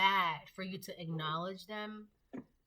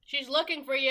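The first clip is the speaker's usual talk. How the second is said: excited pet voice; 8 semitones higher, 11 dB louder than usual. Real, not acted. Talking to pet loudly.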